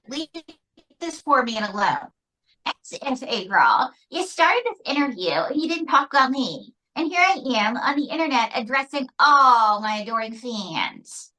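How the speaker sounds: indignant ventriloquist's puppet, mildly put-on voice; lightly voiced puppet diva; diva puppet Mae. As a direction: play a slighted little star addressing adoring fans. Puppet Mae scolds April, plays star.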